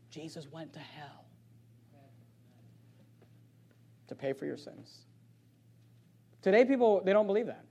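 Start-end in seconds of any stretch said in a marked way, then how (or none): 0.1-5.1 much softer, low, confiding hush; hushed secret. Real, not acted. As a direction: lean in and share a secret with the congregation. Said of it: "let you in on a little secret".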